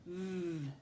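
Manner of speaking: "V" as a held buzzing "vvv", not the letter name; isolated V sound. Shown as a demonstration. Teacher sounding the last consonant, "V" as a long "vvv". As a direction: hum out the consonant "V" alone. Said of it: "V says V".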